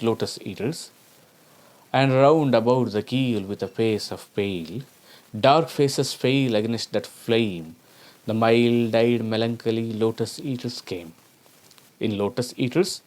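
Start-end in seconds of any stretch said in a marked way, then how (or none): 1.9-11.1 poem recitation. Acted. Recites Tennyson.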